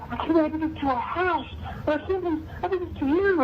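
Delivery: wife apologizing. Retold or imitated. His wife voiced apologizing.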